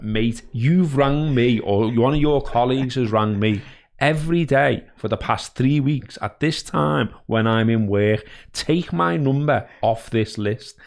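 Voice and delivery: firm, slow, measured rebuke to a cold caller; retelling how he told off a cold caller, firm and slow; stern telling-off. Retold or imitated. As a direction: lay down the law to the salesman, slowly. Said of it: "I proper went on this full spiel".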